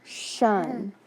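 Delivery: "shun" for T I O N; the TION said shun; shun sound. Shown as a demonstration. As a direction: model the ending shun. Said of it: "that's gonna say shun".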